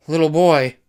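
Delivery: high, loud sing-song taunt; creepy taunting call to a hidden child. A narrator's reading. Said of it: "a taunting and creepy call".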